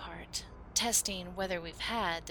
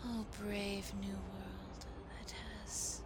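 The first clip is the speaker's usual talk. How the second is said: soft slow whispered farewell; hushed whisper; 11 dB quieter, slower than usual. Acted. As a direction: let the line fade to a whisper. Whispered closing line.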